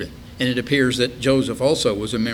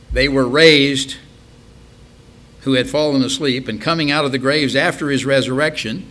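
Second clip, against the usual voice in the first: scripture reading; 3 semitones higher, 5 dB louder than usual. Acted. Preacher reading the graves-opened verse to listeners, declaimed. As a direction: read the verse out firmly to a congregation.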